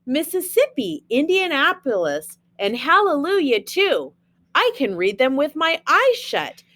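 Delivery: sing-song picture-book reading; reading to children. Acted. Teacher reading Dr. Seuss to her class, sing-song read-aloud. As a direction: read the rhymes to the kids with a bouncy lilt.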